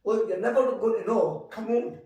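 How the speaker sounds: inner pep talk. Retold or imitated. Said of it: "So it was an inner chit chat".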